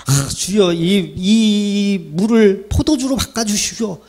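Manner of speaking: slow, hammed-up pleading prayer to the Lord; mock fervent prayer. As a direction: drag it out like a desperate believer begging. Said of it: "막 강청 기도를 해요". (과장된 간절한 기도 흉내)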